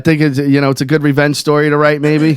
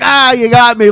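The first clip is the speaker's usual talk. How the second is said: higher, playful exclamation; mock surprise; 6 semitones higher, 3 dB louder than usual. Pranked pet owner to his buddy, mock surprise. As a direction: play at being caught by the prank.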